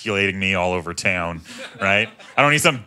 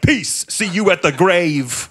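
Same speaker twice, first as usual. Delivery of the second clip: breezy mock farewell; 6 semitones higher, slower than usual. Teen leaving gym class.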